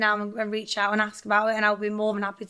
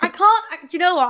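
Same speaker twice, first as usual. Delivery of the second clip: hoarse, strained voice, real; 7 semitones higher, 5 dB louder than usual. Real, not acted. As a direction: speak with a worn-out hoarse voice. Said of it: "I have no voice in me right now".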